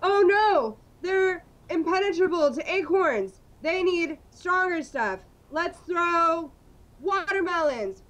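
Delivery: hammed-up superheroes. Batman and Robin shout about rabid squirrels with high excitement. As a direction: ham it up like a campy Batman serial.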